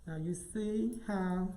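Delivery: muffled through a face mask; talking through a face mask. Real, not acted. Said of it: "excuse my speech with this mask on".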